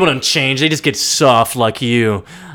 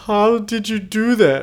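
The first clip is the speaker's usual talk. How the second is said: high, put-on shocked voice; mock Lionel; 8 semitones higher than usual. Lionel shocked at his cut cheek, high voice. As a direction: gasp it out high.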